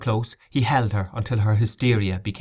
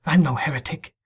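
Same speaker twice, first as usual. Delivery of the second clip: put-on higher-pitched indignant girl; 6 semitones higher than usual. A narrator's reading. Accused girl denies heresy to the bishop, indignant. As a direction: protest in a girl's offended voice. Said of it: "the girl said indignantly".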